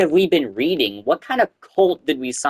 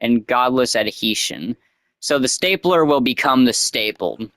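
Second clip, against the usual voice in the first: mock sermon. Reading the cult prophecy aloud, mock sermon. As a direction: proclaim it like a prophet.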